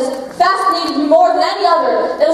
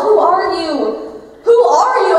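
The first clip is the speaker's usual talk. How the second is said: bewildered inner question; slower than usual. Retold or imitated. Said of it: "you think to yourself".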